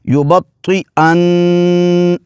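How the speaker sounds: يُبَطِّئَنَّ slowly, the طّ heavy and the نّ held nasal; with ghunna. Shown as a demonstration. Teacher demonstrating the word slowly, heavy and nasal. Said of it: "موٹا کر کے پڑھیں گے اس کو".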